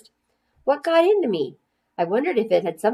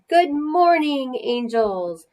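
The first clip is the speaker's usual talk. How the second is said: high, slow sing-song teacher greeting; teacher's greeting; 7 semitones higher, much slower than usual. A narrator's reading. Teacher welcoming her class, high sing-song.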